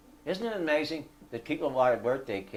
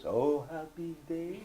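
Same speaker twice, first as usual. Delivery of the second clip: slow, high, drawn-out mock rejoicing; mock delight; 5 semitones higher, slower than usual. Retelling the Spanish cook hearing the judge, mock delight. Delighted cook's reaction, hammed up.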